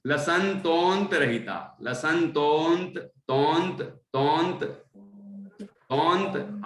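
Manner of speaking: slow, split into pieces, repeating तोंत; teacher drilling each chunk slowly; slow syllable drill. Shown as a demonstration. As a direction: break the word apart and drill तोंत slowly. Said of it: "ऐसे पढ़ना".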